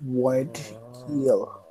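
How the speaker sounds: slow, drawn-out Geordie name; softly savoured Geordie vowels; Geordie accent. Acted. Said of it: "we're gonna do a Geordie accent".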